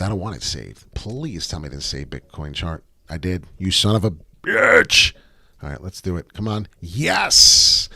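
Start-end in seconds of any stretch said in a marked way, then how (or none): 3.6-5.1 slow, loud exasperated curse; real annoyance at the screen; frustrated curse. Real, not acted. Chart lost on live stream. 6.8-7.9 higher, louder burst of relief; real relieved cheer; excited yes. Real, not acted. Chart recovered on stream.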